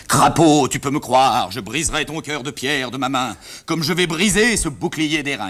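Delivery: grand theatrical declamation, stretched and sweeping; hammed-up tragic actor. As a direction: rehearse a melodrama speech with big gestures in the voice. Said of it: "c'était le bouclier".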